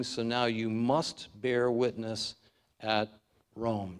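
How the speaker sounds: must held, slow and firm; slow charge, weight on must; Jesus's command, must emphasized; stress on must. Acted. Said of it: "and I emphasize the word must".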